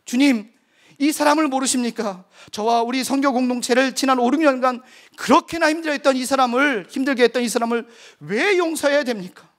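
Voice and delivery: retold angry protest at the Lord; protesting to God. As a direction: argue with God like a man beside himself. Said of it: "저 혼자 미친 사람처럼 막 따졌습니다".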